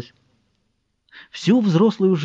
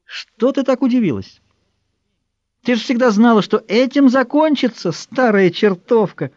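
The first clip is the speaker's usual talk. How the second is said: sneering chimera; 8 semitones higher than usual. A narrator's reading. Chimera taunting the dying old woman, high and mocking. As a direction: gloat over the old woman from above.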